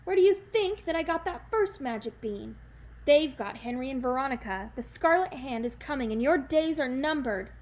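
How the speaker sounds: ranting. Acted. Jack turns on Granny, a loud crazed rant. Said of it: "he ranted".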